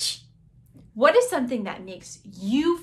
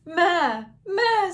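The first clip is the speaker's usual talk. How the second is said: high, loud goat maas; goat bleating; 7 semitones higher, 6 dB louder than usual. Acted. Teacher voicing the goat for children, loud high bleating. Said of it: "said the goat".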